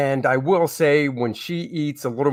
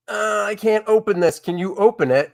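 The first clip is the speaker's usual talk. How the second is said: higher voice, lightly imitating wife or daughter; imitated helpless request; 6 semitones higher than usual. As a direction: lightly mimic a plea for help, pitched up. Imitates wife or daughter asking help.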